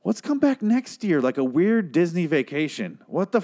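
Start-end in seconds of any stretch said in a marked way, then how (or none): 0.0-1.2 sarcastic mock cheer. Mocking characters returning.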